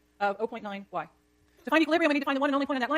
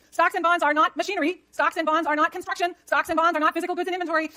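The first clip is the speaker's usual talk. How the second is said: louder, slow, hammering each NOT; emphatic teaching; 5 semitones higher, 7 dB louder than usual. Real, not acted. Professor insisting to students that stocks aren't investment. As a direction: drill the point home firmly. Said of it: "stressing key point to class".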